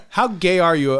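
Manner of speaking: barely holding the laugh in; amused mock question; laughing quote. Repeated quote, still laughing.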